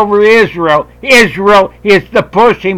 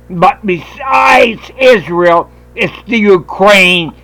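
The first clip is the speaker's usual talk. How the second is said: slow shout; slower than usual. Real, not acted. Ranting call to militia.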